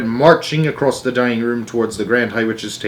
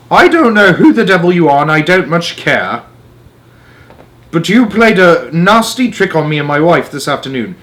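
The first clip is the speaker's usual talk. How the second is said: higher, louder cross English father; angry father; 6 semitones higher, 5 dB louder than usual. Acted. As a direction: bluster at them, loud and indignant. Mr Jenkins angry at trick.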